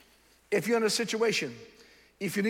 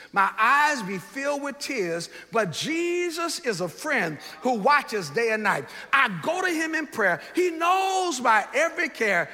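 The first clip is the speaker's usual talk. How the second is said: recited hymn verse; 3 semitones higher than usual. Shown as a demonstration. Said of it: "Let me say that one more time".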